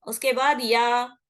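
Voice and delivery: या said slowly and firmly after the pause; slow demo. Shown as a demonstration. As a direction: stress the या of इय्याका as a teaching demo. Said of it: "ऐसा पढ़ रहे हैं उसको". (या पर ज़ोर)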